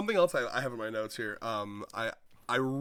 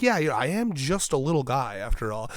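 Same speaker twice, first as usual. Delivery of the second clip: laughing agreement; 7 dB louder than usual. Retold or imitated. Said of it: "he's like".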